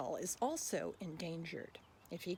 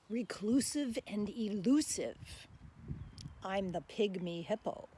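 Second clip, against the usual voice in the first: louder, bouncy rhyming voice of the tapir; tapir reciting; 3 semitones higher, 5 dB louder than usual. Acted. Tapir pleading with listeners to be saved, lively recital. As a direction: speak as the friendly tapir asking for help. Hippo speaks its poem.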